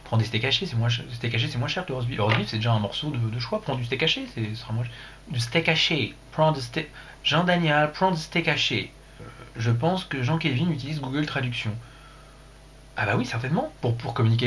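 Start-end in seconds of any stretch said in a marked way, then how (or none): 5.3-8.9 put-on lightly English-accented French. Streamer advising Jean-Daniel, put-on English accent. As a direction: spell out the advice in a mock English accent.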